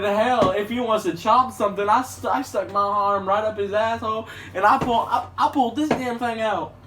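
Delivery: high, loud hammed-up storyteller voice; put-on character voice. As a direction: play a wild loudmouth spinning a tall tale. Opening bit in put-on voice.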